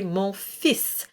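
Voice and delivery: mon fils as "fees", no L and the S sounded; silent L. Shown as a demonstration. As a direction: drop the L of fils, keep the S. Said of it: "we drop the L and just pronounce the S".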